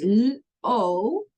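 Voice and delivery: "L-O" sounded out as L, then a held long O; slow teacher's demo of the long O in "L-O". Shown as a demonstration. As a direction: stretch the O in "L-O". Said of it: "I still want to hear that lo sound".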